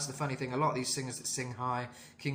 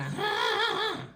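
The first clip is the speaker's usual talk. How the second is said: high "ah" on an inward breath; high-pitched inhaled wail; inhaled high note; 4 dB louder than usual. Shown as a demonstration. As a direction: draw the breath in through a high cry. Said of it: "And a bit of inhale".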